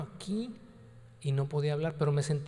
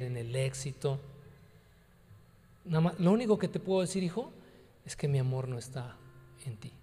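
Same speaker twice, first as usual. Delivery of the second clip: tender fatherly voice; 4 semitones lower than usual. Retold or imitated. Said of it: "Me está hablando en buena onda".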